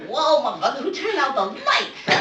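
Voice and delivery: loud, high, alarmed outburst; startled punks. Acted. Punks when the light bulb is smashed, startled yell. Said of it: "And they're like".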